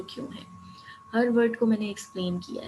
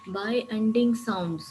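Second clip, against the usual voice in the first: By ending sounds spoken very slowly, word by word; slow heading read-out; much slower than usual. Shown as a demonstration. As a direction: announce the title By ending sounds slowly and deliberately. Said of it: "By ending sounds میں ہماری term کیا تھی؟".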